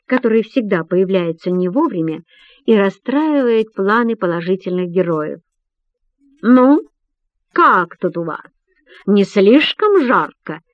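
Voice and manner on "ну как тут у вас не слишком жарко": casual. Acted. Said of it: "небрежно интересуется он".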